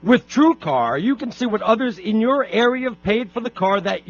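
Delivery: upbeat host-read radio commercial; polished on-air ad voice. Acted. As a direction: sell it like a live sponsor spot. Host reads a sponsor ad.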